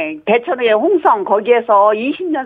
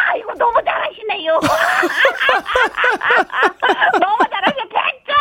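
laughing; 9 semitones higher, faster than usual. Real, not acted. Caller laughing at DJ's attempt.

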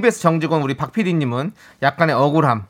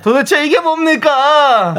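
slow, high, foreigner's Korean; drawn-out foreigner accent; 8 semitones higher, 3 dB louder, much slower than usual. Pretend. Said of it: "저 외국인 발음으로 하시는 거예요?".

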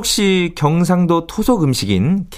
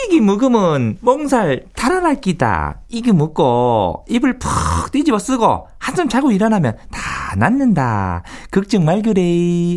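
slow, gentle Gyeongsang dialect mother; 3 semitones higher, slower than usual. Retold or imitated. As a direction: soothe a sick child in Gyeongsang dialect.

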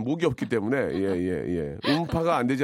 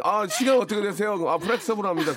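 show-off Konglish speaker; 5 semitones higher than usual. Retold or imitated. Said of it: "어설프게 배운 양반들이".

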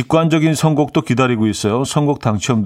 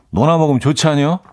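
easy rising Chungcheong twang; Chungcheong dialect; 5 semitones higher, faster than usual. Shown as a demonstration. Host repeating his Chungcheong dialect catchphrase to listeners. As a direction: toss off the dialect line once more. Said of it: "충청도 사투리로".

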